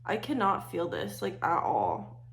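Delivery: talking through a numb face; half the mouth numbed; numb from the dentist. Real, not acted. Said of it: "if I'm talking weird, it's because I just got back from the dentist".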